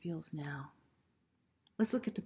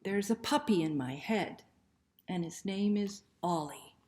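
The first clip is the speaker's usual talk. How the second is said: put-on reading to children; 2 semitones lower than usual. Shown as a demonstration. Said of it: "I'll try to read it this way for you this time".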